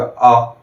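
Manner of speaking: teacher demonstrating dirgha आ; long vowel. Shown as a demonstration. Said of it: "दीर्घ स्वर में आ है तो थोड़ा सा ज्यादा समय लगेगा".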